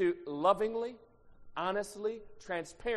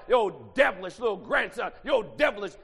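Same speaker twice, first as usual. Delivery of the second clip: grandma scolding; 4 dB louder than usual. Retold or imitated. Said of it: "My grandmama called that".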